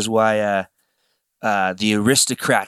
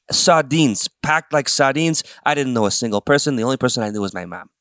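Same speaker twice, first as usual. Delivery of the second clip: mock New York accent; 2 semitones higher than usual. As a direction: play up the New Yorker, half joking. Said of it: "Okay, enough with the accent".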